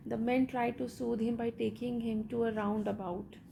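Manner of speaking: slow, measured read-aloud of a story; deliberate textbook narration. Acted. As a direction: read each phrase out slowly for the class. Reads English story text aloud.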